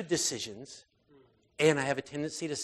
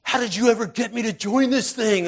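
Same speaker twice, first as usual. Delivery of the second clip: exasperated aside; 8 semitones higher, 11 dB louder than usual. Retold or imitated. Jesus's imagined exasperated remark.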